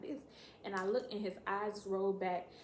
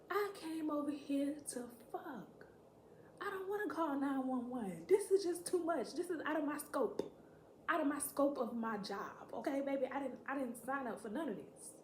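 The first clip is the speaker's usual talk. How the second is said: high-pitched comic protest; hammed-up exasperation; indignant refusal; 5 semitones higher than usual. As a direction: protest as if deeply put upon.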